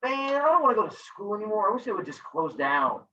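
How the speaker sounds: mock whine, starting high and sinking; complaining student. Teacher mimics sixth grader after winter break, whining. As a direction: imitate a fed-up kid. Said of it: "one of you said the words".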